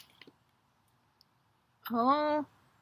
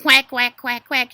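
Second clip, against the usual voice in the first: quick run of quacks, first ones loud; playful duck call; duck quacking; 7 dB louder than usual. Shown as a demonstration. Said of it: "Can you quack like a duck".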